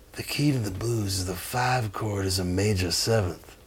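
low, very soft secret-sharing voice; master sharing wisdom. Retold or imitated. Bluesman revealing fake secret to bandmates, hushed deadpan. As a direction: confide it quietly, a deadpan sage. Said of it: "waiting for the wisdom of the master".

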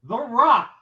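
ring announcer. Acted. Announcing wrestler name.

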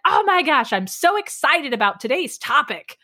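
mock podcast excitement. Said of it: "the first thing they said".

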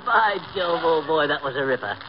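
hammed-up British old-boy approval; mock-British appreciation of a joke; British accent. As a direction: put on a clubman's British accent. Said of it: "a fellow with a British accent".

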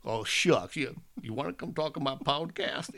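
lightly hammed-up, hesitant aw-shucks request; halting, self-mocking fan invitation; mock bashful asking. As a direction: imitate yourself timidly asking a favor. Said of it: "I'm a fifty-year-old man".

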